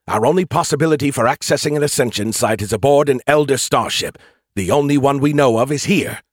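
urgent AI voice. Acted. AI character Skippy speaking.

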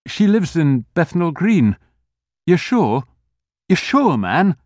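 urgent. Acted. Urgent questioning.

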